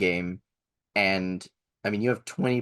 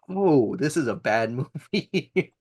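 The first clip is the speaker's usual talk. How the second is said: drawn-out, higher, breaking into laughter; amused mock realization; 6 semitones higher, 3 dB louder than usual. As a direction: quote your dawning realization, slow and laughing. Mock realization at a bad movie.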